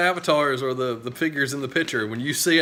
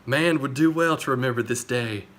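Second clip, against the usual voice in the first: dramatic movie narrator. Retold or imitated. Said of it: "how they ended in the movie with Erica's voice".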